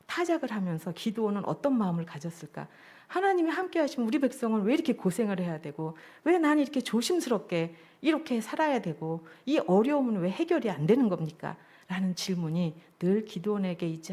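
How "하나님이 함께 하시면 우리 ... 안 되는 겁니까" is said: higher-pitched, aggrieved questioning of God; pleading protest. Acted. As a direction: plead "why" as Gideon, pitch rising high. 기드온의 원망 어린 질문을 대변. (하나님께 따져 묻듯 호소하는 말투)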